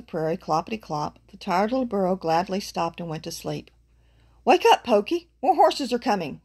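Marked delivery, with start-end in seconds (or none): 4.4-6.4 high, loud warning call; urgent call. A narrator's reading. Ground squirrel warns sleeping burro of horses, calling out high. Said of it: "called a ground squirrel".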